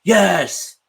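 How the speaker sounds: imitating Kobe's yes.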